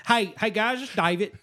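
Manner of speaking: lightly hammed-up Southern accent; David Bailey's Southern accent. Host pretends to be the guest asking to join, mock Southern accent. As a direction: imitate a polite Southerner, slightly amused. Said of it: "That's a really good accent".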